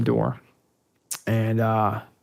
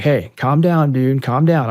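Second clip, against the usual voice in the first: raised, urgent calming plea; retold urgent appeal; 3 semitones higher, 5 dB louder, slower than usual. Marine talking down a man with an AK, retold urgent appeal. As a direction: talk him down urgently, as retold.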